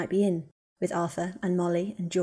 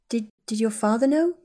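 halting start, then rising higher; hesitant question; 4 semitones higher, 4 dB louder than usual. Acted. Woman cautiously asks him about his father, hesitant. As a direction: falter on the first word, lift into the question.

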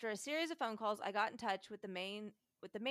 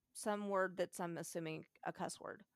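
ordinary talk, nothing marked

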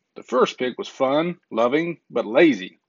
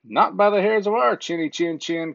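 a touch higher pair of pigs refusing; pigs crying out; 5 semitones higher than usual. Acted. Two pigs refusing the wolf, mild cry. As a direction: cry it out lightly as two piglets. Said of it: "cried the two pigs".

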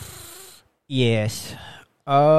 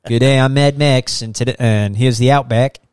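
mock Australian accent; 4 dB louder than usual. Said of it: "Mad Max has that, uh, accent".

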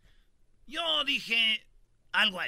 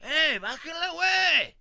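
acted protest, pitched up high; angry dad; 7 semitones higher, 11 dB louder, slower than usual. Dad to priest manhandling his baby, mock angry shout. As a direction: call out like an indignant father stepping in. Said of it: "se enoja como el papá".

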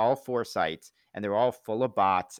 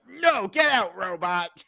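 high, loud comic yell; mock alarmed shout; 12 semitones higher, 6 dB louder, slower than usual. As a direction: throw out an exposed impostor, hammed-up. Acted expulsion of an exposed robot.

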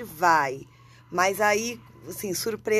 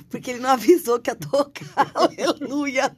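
laughing; 4 semitones higher, 3 dB louder than usual. Real, not acted. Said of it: "eu tô segurando a risada".

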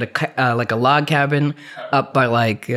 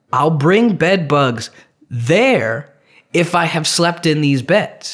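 "bed bugs" and "there" spaced out slowly for emphasis; slow, insistent stress through "bed bugs there"; retold emphatic warning; 2 semitones higher, slower than usual. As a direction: spell out the consequence, leaning slowly on "there". Retold argument with Airbnb.

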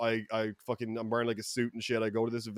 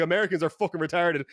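raised-pitch mock rant; losing his mind; 4 semitones higher, 3 dB louder than usual. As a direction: keep the re-enacted tirade going, exasperated. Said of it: "losing my mind".

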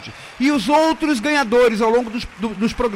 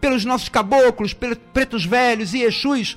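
prayer; 3 semitones lower than usual. Acted. Host prays on air.

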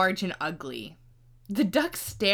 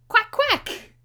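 much higher, loud duck cry; cried quack; 13 semitones higher, 8 dB louder than usual. Acted. Mother duck calling her brood into the water with a loud high quack. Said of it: "cried she".

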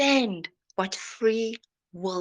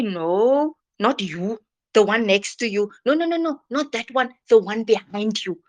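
mock dismissive God. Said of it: "God never says that".

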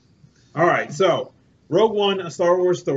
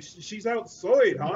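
put-on Scottish accent; 5 semitones higher, slower than usual. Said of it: "He's like".

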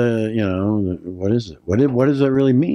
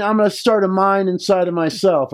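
put-on old prospector; 8 semitones higher than usual. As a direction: play a grizzled gold miner. Jokes about mining inside himself.

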